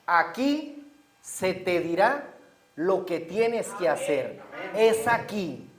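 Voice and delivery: slow, drawn-out and deliberate; slow emphasis. Shown as a demonstration. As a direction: let every word land slowly. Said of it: "quiero que se enfoquen en esto".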